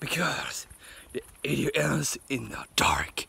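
secretive whisper. Real, not acted. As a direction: whisper it close to the mic. Whispered sign-off joke.

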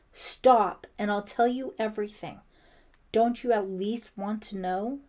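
loud, insistent plea; urgent appeal. A narrator's reading. Brian offering struggling Ellie the truth, urgent appeal. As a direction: open on a shout, then urge her.

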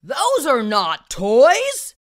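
slow, loud stern scold. Acted. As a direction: scold like an annoyed parent. Scolding parent line.

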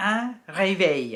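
un réveil as "ray-vay"; un réveil said slowly; French pronunciation. Shown as a demonstration. Teacher naming the alarm clock, careful French. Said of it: "ก็คือ".

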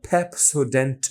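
পেপসোডেন্ট with strong puffs on p and t; over-aspirated. Shown as a demonstration. Teacher mocks his old puffed Pepsodent. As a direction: blast air on every p and t of পেপসোডেন্ট. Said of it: "এরকম করে".

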